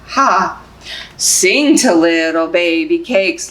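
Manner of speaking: slow, sing-song picture book reading; reading to babies. Acted. Librarian reading Baby Cakes to babies, sing-song. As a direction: lull them along, gently rhythmic.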